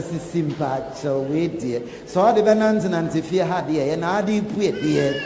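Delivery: mild imitation of a husband asking nicely; husband's gentle plea. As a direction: coax her softly, as the loving husband. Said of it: "ka kyerɛ no sɛ".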